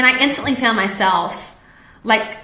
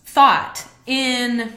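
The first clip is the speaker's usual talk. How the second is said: emotional; 4 dB quieter, slower than usual. Real, not acted. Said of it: "this makes me a little bit emotional".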